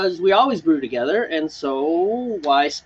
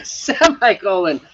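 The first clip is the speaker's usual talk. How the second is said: amused slow repeat; 2 semitones higher, slower than usual. Retold or imitated. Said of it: "Semicolon, brother".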